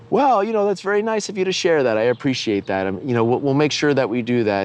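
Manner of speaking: a hint of a placating priest; voicing the priest. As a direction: lightly mimic the polite priest. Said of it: "And the priest says".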